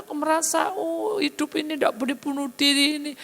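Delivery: high tearful lament; high weeping confession; crying woman. Acted. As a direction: pour it out through tears, pitched high. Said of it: "dia nangis sendiri".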